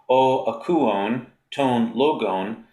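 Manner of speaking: o akuon, ton logon said slowly, word by word; reading Greek slowly. Shown as a demonstration. Teacher reading a Greek example aloud, slow and careful. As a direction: pronounce the Greek phrase carefully for students. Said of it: "So in this example".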